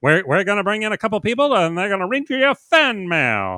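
loud, high fast-talking 1940s host; old time 1940s voice. Acted. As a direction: sell it like a 1940s radio man. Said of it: "I am a sucker for doing a nineteen forties voice".

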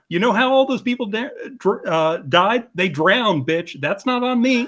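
high-pitched mock indignation; hammed-up, affronted self-defence; indignant. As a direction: imitate an offended comedian defending himself. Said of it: "he's getting indignant".

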